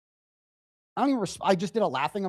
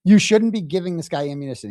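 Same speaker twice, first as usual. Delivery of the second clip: louder, mocking parrot of her words; sarcastic louder echo; mocking repeat; 7 dB louder than usual. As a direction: throw her line back at her.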